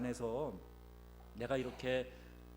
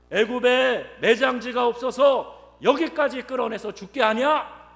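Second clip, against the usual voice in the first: loud, high, slow indignant protest; high-pitched shouted grievance of a crowd; defiant complaint; 9 semitones higher, 15 dB louder, slower than usual. Retold or imitated. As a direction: throw the accusation back at the leader. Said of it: "이렇게 대들고 이야기하는 거예요".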